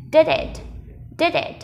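"did it" linked into one word; linked pronunciation. Shown as a demonstration. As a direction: run the d of "did" straight into "it". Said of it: "Mình sẽ nối thành".

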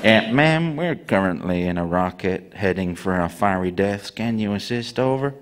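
calmly asking for help while doomed; a hint of a polite astronaut; astronaut on the phone. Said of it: "you can't call A A Relay".

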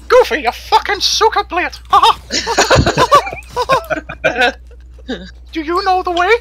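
high, giggling through the words; laughing. Real, not acted. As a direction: laugh while you talk. Laughing through meme quotes.

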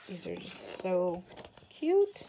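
a sudden delighted squeal on the last word; squealed cute. Real, not acted. Gushing over cute paper.

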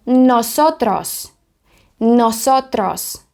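drawn-out, carefully sounded Spanish word; teacher's slow, deliberate Spanish; slow model pronunciation. Shown as a demonstration. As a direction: say it slowly for learners to copy.

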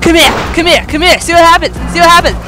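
raging vampire. Pretend. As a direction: chase them down yelling like a starving bloodsucker. Plays a ravenous vampire on rampage.

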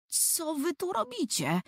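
put-on surprised older brother. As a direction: ask what on earth they're doing. Antek arriving surprised.

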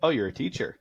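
lightly acted pleased surprise; perked-up interest. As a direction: imitate someone perking up with interest. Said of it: "he kinda perked up".

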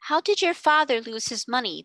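breathless urgent question. Acted. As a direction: blurt it out, short of breath. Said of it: "broke in breathlessly".

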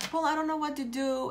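softly mimicked helpless resignation; mock helplessness. Coach mimics a person who just sits there, mock helplessness. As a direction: drop the volume, play someone stuck. Voicing someone stuck and giving up.

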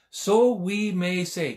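slow emphatic. Shown as a demonstration. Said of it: "Can you say that today?".

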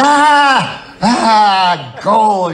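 high, loud squawking cartoon duck; excited cartoon duck cry; Daffy Duck. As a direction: shriek for joy like Daffy Duck. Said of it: "You're like Daffy Duck".

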